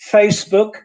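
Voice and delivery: FACEBOOK with s, FAYSS-book; English S in FACEBOOK. Shown as a demonstration. Teacher modelling English for Polish learners, correct s sound. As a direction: say FACEBOOK with a hissing s. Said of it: "in English it's Facebook".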